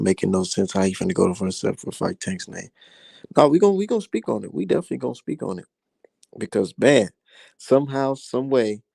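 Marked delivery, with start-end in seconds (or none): 3.4-5.7 excited. Real, not acted. Hyped promise to cover the topic.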